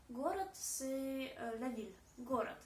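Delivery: город said gorat, final d as t; город with the second o reduced toward a; GO-rat, stress on the first syllable; Russian город. Shown as a demonstration. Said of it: "la deuxième O devient plutôt A".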